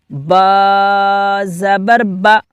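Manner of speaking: با then زبر با, slow and distinct; letter drill. Shown as a demonstration. Teacher drilling letters for children. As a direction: spell it out for pupils. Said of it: "با نہیں کریں گے".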